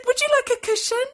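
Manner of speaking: high, loud doting offer; doting girl. A narrator's reading. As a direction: coo it to the cat in a squeaky high voice. Girl spoils her cat.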